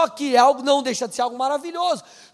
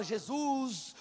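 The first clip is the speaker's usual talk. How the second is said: long drawn-out plea for patience; mock exasperated prayer; much slower than usual. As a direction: pray through comic exasperation, stretching the words. Acts exasperated prayer about annoying brother.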